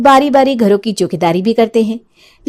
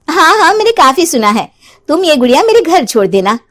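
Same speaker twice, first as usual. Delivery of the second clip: Ranjana playing along; 6 semitones higher than usual.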